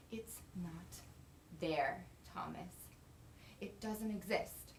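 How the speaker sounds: soft, slow, cutting whisper; bitter whisper. Acted. Wife tells husband his dream is false, slow bitter whisper. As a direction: drop to a hush to wound him. Wife hushes after shouting.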